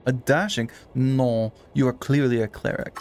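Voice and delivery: put-on dismissive Frenchman, French accent. Frenchman dismissing a would-be rogue, French accent. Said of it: "Loving this French accent show".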